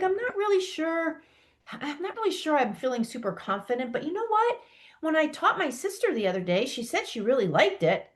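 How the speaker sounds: unsure voice rising on the key words; questioning doubt. Shown as a demonstration. Coach showing how an unsure teacher sounds, questioning doubt. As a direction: make it sound like you're asking for reassurance. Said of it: "Do you hear in my voice the questioning?".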